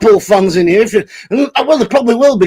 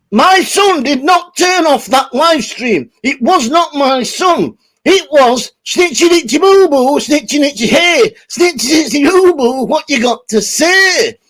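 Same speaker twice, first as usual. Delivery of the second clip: mock dad voice; 4 semitones higher than usual. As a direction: ham up the dad's denial slowly. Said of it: "translate from Diet Chips".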